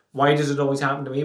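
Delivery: fast, throwaway poor-me question; rushed self-pity. Shown as a demonstration. Showing listeners the lazy version, rushed and throwaway. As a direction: rattle it off like a reflex complaint. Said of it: "Not just".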